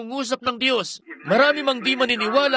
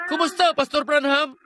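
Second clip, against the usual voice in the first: a raised, higher call across the street; called out greeting; 5 semitones higher than usual. Retold or imitated. Healed man calling out to the pastor, a mild retold shout. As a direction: hail the pastor from a distance. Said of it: "biglang sumigaw".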